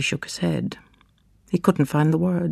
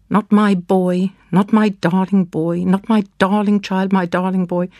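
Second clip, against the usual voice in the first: keening grief; 3 semitones higher than usual. Acted. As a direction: draw out each "my" in anguish. Mother grieving dead son.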